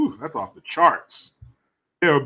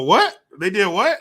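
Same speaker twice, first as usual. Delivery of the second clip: mock outrage; 5 semitones higher, 7 dB louder than usual. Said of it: "and they go".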